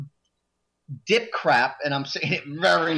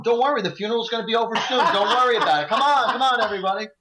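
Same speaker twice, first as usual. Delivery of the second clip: higher-pitched, jokey rallying call; acted rallying; 5 semitones higher, faster than usual. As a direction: re-enact livening up a dull table. Livening up a dead table.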